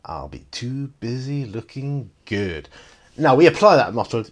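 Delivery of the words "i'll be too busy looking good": slow, cool film-hero quote; lightly imitated confident fighter; Williams. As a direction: stretch it out with swagger. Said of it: "He says".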